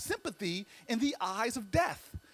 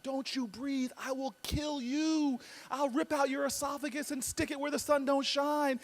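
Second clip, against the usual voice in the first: higher-pitched mock raging threat; mock berserk; 5 semitones higher than usual. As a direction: rant threats like a giant gone berserk, without shouting. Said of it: "goes berserk".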